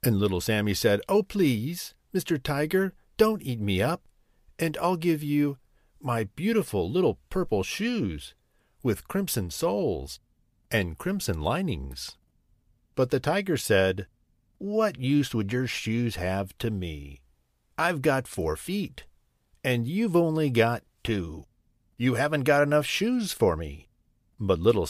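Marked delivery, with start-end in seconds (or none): 1.1-12.2 put-on lightly raised, pleading child voice; a hint of a frightened small boy; pleading little boy. Sammy pleads with tiger. 14.6-23.9 lightly voiced tiger, dismissive; a hint of a haughty tiger; scoffing tiger.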